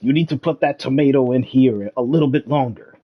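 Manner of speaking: a hint of a scolding celebrity chef; lightly voiced chef nagging a home cook; mild mock TV chef rant; Gordon Ramsay. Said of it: "have him play in the background and be like".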